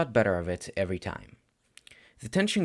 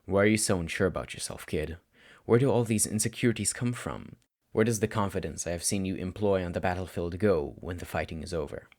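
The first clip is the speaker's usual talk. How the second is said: patient teacher; 3 semitones lower than usual. Acted. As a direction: ask gently but keep pressing. Teacher questions his student.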